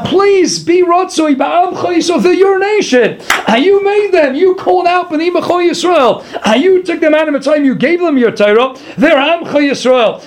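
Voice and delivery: acted, earnest entreaty; beseeching. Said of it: "we're beseeching Hashem Lakeinu".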